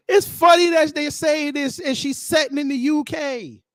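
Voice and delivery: high, tickled exclamation; tickled disbelief. Real, not acted. Reactor repeating the irony after laughing, tickled disbelief.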